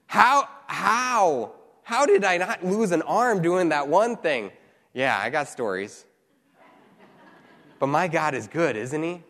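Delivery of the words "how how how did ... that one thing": emphatic, incredulous retold questioning; amazed hindsight. Preacher recalling past close calls to congregation, amazed. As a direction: marvel at your own narrow escape.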